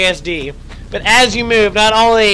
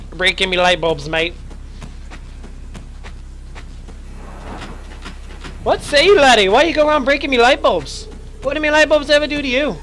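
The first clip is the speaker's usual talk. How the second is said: feisty British bloke, higher; mock British accent; 5 semitones higher than usual. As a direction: scold the lightbulb breaker like a cockney mate. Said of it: "I had to get a little feisty there".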